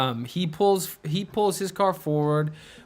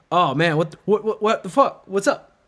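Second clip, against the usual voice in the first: mock chill; 4 semitones higher than usual. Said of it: "tried to play it off like he was chill".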